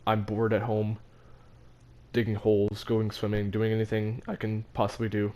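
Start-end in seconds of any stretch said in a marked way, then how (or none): 4.3-4.3 voice crack. Real, not acted. Boy listing ways he fought boredom at home, voice cracking. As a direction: voice cracks upward for a moment. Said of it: "Excuse my voice crack".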